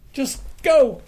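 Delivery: high, loud urgent order. Retold or imitated. Telling his friend to just leave, high and urgent. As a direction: blurt it out in a rush. Rushing out of the car.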